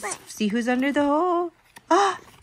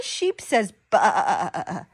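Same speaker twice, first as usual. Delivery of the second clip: slow drawn-out reading; 7 semitones lower, much slower than usual. Acted. Reading animal sound aloud.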